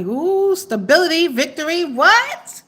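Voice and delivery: high, excited exclamations; thrilled surprise. Real, not acted. Thrilled by the money cards.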